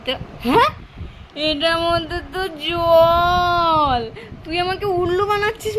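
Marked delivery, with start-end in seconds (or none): 1.5-4.0 mock disappointed wail. Box holds water, not ice cream.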